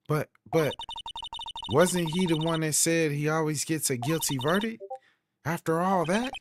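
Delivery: high-pitched, protesting character voice; puzzled assistant. Acted. Assistant questioning the prosecutor's guilty-verdict boast, high and puzzled. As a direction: stammer into it high and bewildered.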